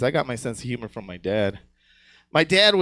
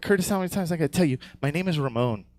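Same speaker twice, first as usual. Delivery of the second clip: exasperated friend; 3 semitones higher, faster than usual. Retold or imitated. Friend voiced in punchline.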